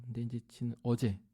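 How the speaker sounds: ordinary talk, nothing marked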